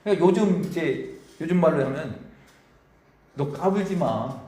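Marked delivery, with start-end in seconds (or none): 3.3-4.4 a hint of a stern God, slowly; drawn-out mock warning to Job. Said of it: "이렇게 말씀하십니다". (욥에게 느리게 꾸짖는 하나님 목소리)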